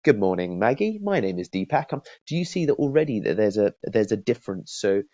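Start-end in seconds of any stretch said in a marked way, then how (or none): 0.0-1.9 stiff, by-the-book formal greeting; the distant scripted salesman; formal stiff caller. Retold or imitated. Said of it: "that kind of style versus".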